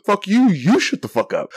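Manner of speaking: high-pitched mock comeback; retold yelled retort. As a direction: imitate a ranting stranger shouting back. Street yeller answers back in quarrel.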